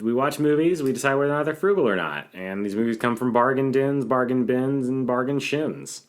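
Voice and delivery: upbeat, fast host spiel; energetic host pitch. Acted.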